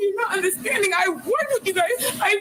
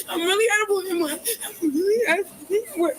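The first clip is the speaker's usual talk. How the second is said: crying; slower than usual. Real, not acted. Distraught woman in police stop.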